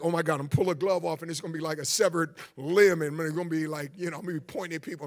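low, quiet, hurried worry; muttered mock dread. Preacher imagines losing a finger on the zip line, muttered mock dread. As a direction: mutter the panicked thought under your breath.

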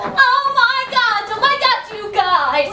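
put-on loud, high valley-girl gush; high excited Elle Woods squeal; Legally Blonde squeal. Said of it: "Legally Blonde moment".

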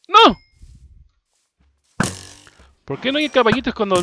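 high, loud dismayed cry. Real, not acted. Dismay, no horses.

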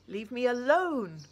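loud anguished scream. A narrator's reading. Girl screaming at Claire in the street. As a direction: split the air with it. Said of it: "I scream".

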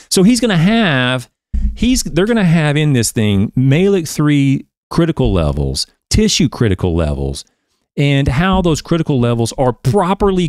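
slow, emphatic excitement, pitched high; jubilant. Real, not acted. Teacher thrilled by the paper's critical levels, jubilant. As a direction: relish each finding, drawing out the big words. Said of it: "they would share my jubilance".

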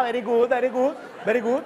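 put-on "very good" with a Spanish accent; hammed-up gringo teacher praise; mock English praise. (elogio en inglés con acento)

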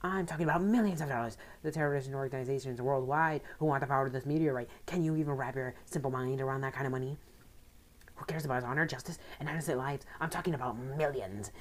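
lightly voiced scheming villain boss; greedy, gloating, a hint of menace; a touch of a smug crime boss; villain leader. Reads Maxie's villain dialogue.

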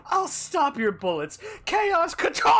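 put-on shouting kid. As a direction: yell it like a kid playing pretend. Acted kid shouting in fight.

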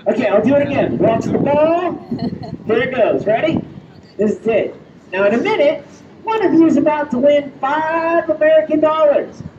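loud, showy patter for the crowd; street show patter. Acted. Magician hyping the crowd before the trick, loud showman patter.

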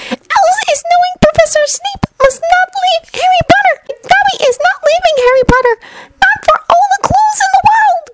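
very high squeaky elf voice; Dobby the house-elf. Acted. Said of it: "the creature said".

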